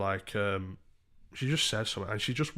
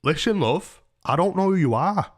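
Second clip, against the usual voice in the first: loud, raised-pitch telling-off; annoyed; 9 semitones higher, 8 dB louder, slower than usual. Retold or imitated. Warning a stranger off through his door, annoyed. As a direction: retell an irritated warning, firm and loud. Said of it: "I was annoyed about it".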